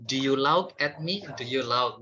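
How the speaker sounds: "lauk" with an "ow" sound for laugh; misread word. Shown as a demonstration. Teacher repeating the learner's mistake, "lauk" in place of laugh. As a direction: mispronounce laugh as "lauk" in the question. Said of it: "tapi kita bacanya lauk".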